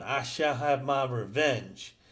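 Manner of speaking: slow, even robotic delivery. Retold or imitated. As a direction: read it like a stiff robot. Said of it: "saying this almost like a robot".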